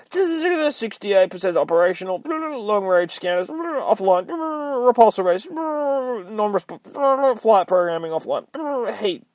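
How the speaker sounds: high, slow malfunctioning computer; damaged AI suit voice, stuttering status report; glitching robot voice. Acted. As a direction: report damage like a failing machine.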